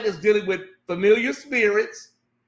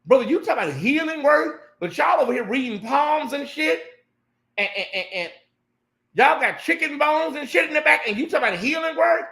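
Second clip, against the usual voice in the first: higher-pitched mocking disbelief; incredulous call-out; 6 semitones higher than usual. Real, not acted. Host calling out the pastor to Uncle Tim, incredulous. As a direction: call him out, half laughing at the nerve.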